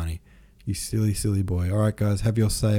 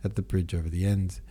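measured audiobook narration; story narration. A narrator's reading. Narrator reading a gambling scene to listeners, measured storytelling. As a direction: read the novel aloud with care. Reads a novel aloud.

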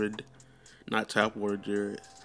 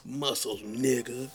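awed mirror whisper; 3 semitones higher than usual. Retold or imitated. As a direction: breathe it out, admiring yourself. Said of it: "flexing up in the mirror".

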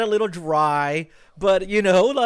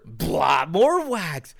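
normal talking voice

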